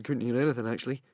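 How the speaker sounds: soft, sheepish mumble; mumbled. A narrator's reading. Fishlegs admitting he heard nothing, sheepish mumble. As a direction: trail off embarrassed. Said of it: "he mumbled".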